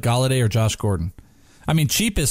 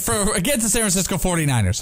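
building intensity; 6 semitones higher than usual. Pretend. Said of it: "I was trying to build up the intensity there".

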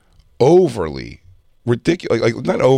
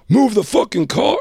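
high, drawn-out mock yell; imitated yell; 10 semitones higher than usual. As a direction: imitate a cop yelling an order, not at full volume. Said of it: "He started yelling?".

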